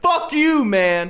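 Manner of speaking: high-pitched mock scream of abuse; retold screaming. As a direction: act out a screaming match, voice shooting up. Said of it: "because they're screaming".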